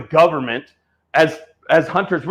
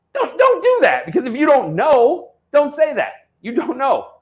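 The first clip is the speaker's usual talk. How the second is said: angry rant; 8 semitones higher than usual. Real, not acted.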